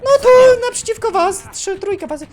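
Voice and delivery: calling out. Real, not acted. Calling out position to teammates.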